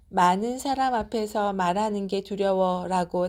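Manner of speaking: normal talking voice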